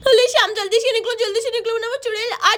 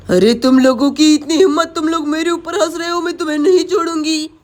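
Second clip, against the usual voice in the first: low, louder furious witch; angry witch voice; 5 semitones lower, 5 dB louder than usual. Acted. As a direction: snarl as the witch. Witch angered by laughter.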